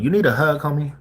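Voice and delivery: mock baby talk. Streamer mocking an angry dude, high coddling baby voice. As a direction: talk down to him like a pouting toddler. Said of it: "That's what I wanted to tell the dude".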